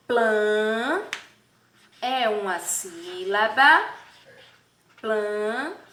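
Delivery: "planeta" broken into separate syllables; syllable separation. Shown as a demonstration. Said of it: "a separação silábica da palavra planeta".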